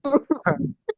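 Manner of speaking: high-pitched chuckle; real laugh. Real, not acted. Teacher amused by the rat story, laughing. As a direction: laugh at your own story. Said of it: "I'm laughing".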